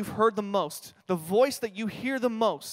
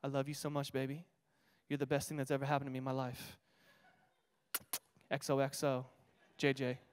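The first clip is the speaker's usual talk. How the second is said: softly read card; 5 semitones lower, 9 dB quieter than usual. Retold or imitated. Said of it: "He writes".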